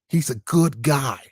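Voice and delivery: understated sarcastic repeat; mock Biden supporter again. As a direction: stretch it out sarcastically. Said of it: "I like Joe Biden".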